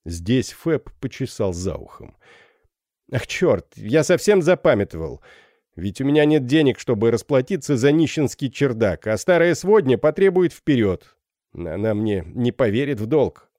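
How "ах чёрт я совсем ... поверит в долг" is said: голос капитана Феба. Acted. Фэб говорит о свидании.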